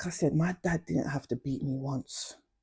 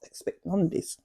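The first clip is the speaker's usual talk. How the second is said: louder startled whoa; retold shock after the slap; shocked exclaim; 3 semitones higher, 6 dB louder than usual. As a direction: burst out in shock. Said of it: "I was like".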